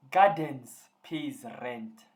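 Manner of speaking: loud, very drawn-out announcement; excited, stretched-out delivery; too excited. Real, not acted. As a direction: announce it slowly with excited emphasis. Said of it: "I'm even too excited now".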